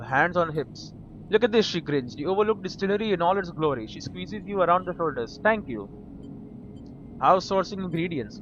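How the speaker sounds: reading the game's text aloud, evenly; steady reader's voice for the game; story narration. Acted. Reads game text again.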